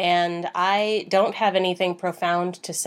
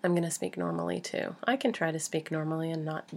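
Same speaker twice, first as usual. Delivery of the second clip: yoga teacher voice; 6 dB quieter, faster than usual. Real, not acted. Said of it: "that was my yoga teacher voice".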